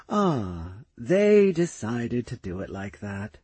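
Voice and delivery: slow, weary and fond; tired, gently amused. Acted. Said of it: "She spoke with a tired smile".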